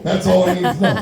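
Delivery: said through a chuckle; laughing repeat. Retold or imitated. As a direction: let the laugh leak in.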